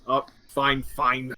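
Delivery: mildly exasperated giving in; weary, understated surrender; sighing resignation. Acted. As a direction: concede reluctantly after a sigh. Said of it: "He sighs".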